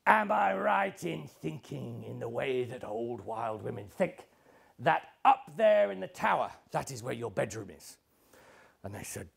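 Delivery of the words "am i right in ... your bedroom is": lightly voiced old woman, slightly lower; old wise woman's measured question, mildly put on; old wild woman. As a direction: ask knowingly, as a hint of an old magician. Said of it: "And she says".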